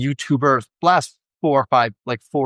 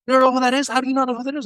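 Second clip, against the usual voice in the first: put-on much higher, disbelieving young nephew; incredulous nephew; 14 semitones higher, much faster than usual. Nephew amazed that his uncle doesn't know the star, high and disbelieving. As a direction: act out the nephew's astonishment.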